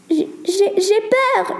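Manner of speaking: put-on a scared girl stammering in the dark; frightened cry. Sarah in the dark cave, high stammering fear. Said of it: "hurla Sarah".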